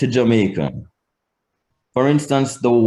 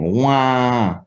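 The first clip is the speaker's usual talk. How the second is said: nasal vowel. Shown as a demonstration. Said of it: "in your nose".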